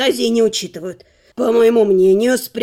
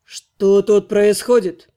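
slow stern angry question; much slower than usual. Acted. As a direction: demand it slowly and coldly. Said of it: "злой голос за спиной". (злой медленный голос)

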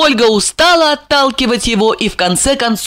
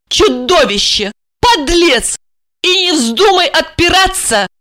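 high-pitched angry woman; snapping at him; 8 semitones higher than usual. Acted. Betrayed wife rebukes her lying husband, angry. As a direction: accuse him in a raised, indignant pitch. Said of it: "прикрикнула она".

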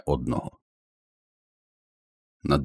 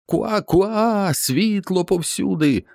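very high, slow cawing shout; high raven caw announcing light; raven's cry; slower than usual. Acted. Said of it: "закричав ворон".

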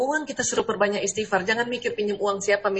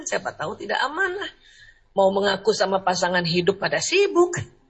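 ordinary talk, nothing marked

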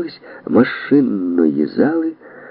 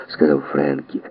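usual speaking voice

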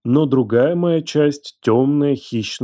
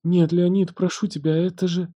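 put-on higher girl's voice fading softer; faltering plea; 7 semitones higher, 3 dB quieter than usual. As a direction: beg as the voice gives out. She begs, voice failing.

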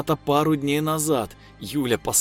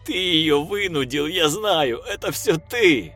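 higher, louder, biting blame; furious accusation; 8 semitones higher, 4 dB louder than usual. A narrator's reading. Lev accuses the voice of forcing her, loud and furious. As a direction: hurl the blame at him.

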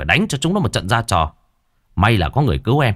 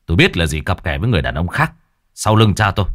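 gritted warning; faster than usual. Acted. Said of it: "Tấn gằn giọng".

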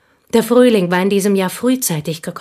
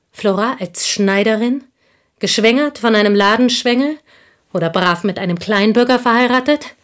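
louder, mocking scorn at her friend's fate; scornful disbelief; 4 semitones higher, 4 dB louder than usual. Woman sneering to Monsieur Dange about Flora's future, scornful. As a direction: sneer at such a common future.

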